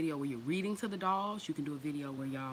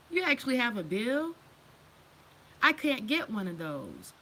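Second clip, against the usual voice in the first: incredulous high, exaggerated; sarcastic disbelief, pitched up; mock incredulous; 3 semitones higher than usual. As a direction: act amazed that they even get a bill. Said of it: "And I'd be like".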